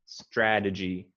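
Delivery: "Strategy" slow, every syllable fully pronounced; clear full E. Shown as a demonstration. Tutor slowly models the word for the student. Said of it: "maybe a little more clearly, uh, fully pronounce the E".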